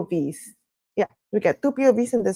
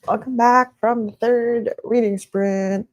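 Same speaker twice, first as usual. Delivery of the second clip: sing-songy. Real, not acted. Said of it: "Why am I speaking in, like, a sing-songy way?".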